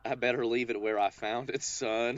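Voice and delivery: put-on light Alabama accent. Answering co-host's warning in a playful Alabama accent. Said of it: "bring my Alabama back out there".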